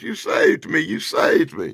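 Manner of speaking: mock joyful thanks; happy relief. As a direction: gush like a rescued sidekick. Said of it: "Roy laughs in happiness".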